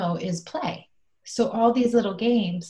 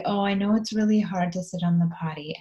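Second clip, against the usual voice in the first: soothing whisper. Retold or imitated. Soothing an upset child.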